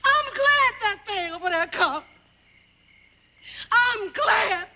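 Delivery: speaking through tears, voice wavering; choked-up bitter relief; tearful. Acted. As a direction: let the crying break into the words. Grieving wife of crippled husband.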